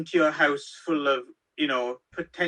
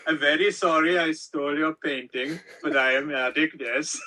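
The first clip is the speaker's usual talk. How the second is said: put-on Norwegian accent; 2 semitones lower than usual. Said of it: "I'm doing a crap Norwegian accent".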